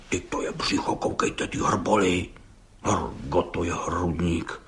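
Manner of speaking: hushed, unvoiced admiring whisper; whispered marvel. Judge marvelling at the bricklayer's belly in a whisper. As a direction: breathe it out in awe. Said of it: "průšel soudce".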